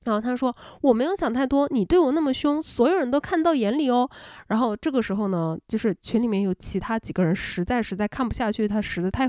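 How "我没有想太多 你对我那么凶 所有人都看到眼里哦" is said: mock indignant neighbor. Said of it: "这女生这时候就炸了".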